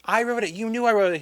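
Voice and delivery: indignant disbelief; exasperated. Retold or imitated. Writer protesting to the teacher, high and incredulous.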